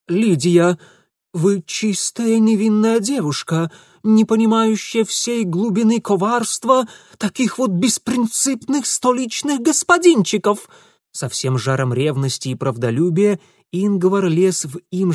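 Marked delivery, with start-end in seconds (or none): 0.1-10.7 high, loud passionate warning; fervent. A narrator's reading. Ingvar warning Lidia about Mitya, fervent. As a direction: preach it with jealous zeal.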